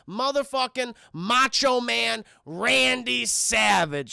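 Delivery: slow, drawn-out ring announcer call; proudly announcing a wrestler; wrestling announcer intro. Shown as a demonstration. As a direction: roll out the name like a ring introduction. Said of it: "Let me put some respect on that name".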